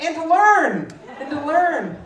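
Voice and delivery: high, loud hammed-up teacher shout; mock yelling. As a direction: yell it over a crying child, exaggerated. Teacher yelling over crying kid.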